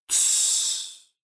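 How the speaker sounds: breathy unvoiced hush; whispered shush. Hushing someone in sleeping house.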